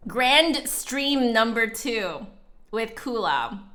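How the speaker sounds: slow, grand title read; slow grand announcement. Shown as a demonstration. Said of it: "That's a great name for this stream".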